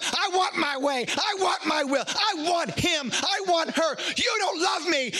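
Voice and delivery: put-on high, shouted childish demands; whiny little kid. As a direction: throw a tantrum like a spoiled child. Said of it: "we're acting like little kids".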